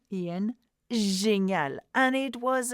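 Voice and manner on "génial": "génial" drawn out slowly; slow read-aloud demo. Shown as a demonstration. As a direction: model "génial" carefully, stretching the first sound. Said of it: "learning how to read out loud".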